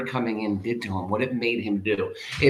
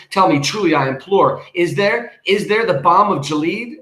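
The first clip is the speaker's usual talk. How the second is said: high, loud, urgent imploring; impassioned plea; 4 semitones higher, 5 dB louder than usual. Acted. Speaker demands answers from the raven, high and loud. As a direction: cry out to the bird for an answer.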